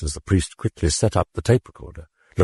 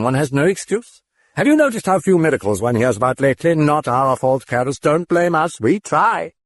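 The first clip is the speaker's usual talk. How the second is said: mocking demon; 11 semitones higher than usual. A narrator's reading. The demon taunting Karras about miracles. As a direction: toy with him like a demon.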